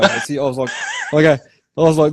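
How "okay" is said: resigned okay through a laugh. Retold or imitated. To friends, recalling the rough flight, a resigned laughing okay. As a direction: laugh it off like you've given up.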